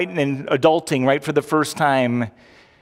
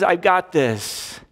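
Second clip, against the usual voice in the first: calm assurance; 2 semitones higher, much slower than usual. Shown as a demonstration. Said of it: "and he says".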